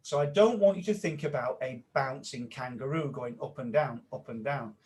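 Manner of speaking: playful guided exercise, quick start. Shown as a demonstration. Trainer repeating the exercise, playful and guiding. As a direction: lead them through it, bouncy on boing. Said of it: "I'll say that again".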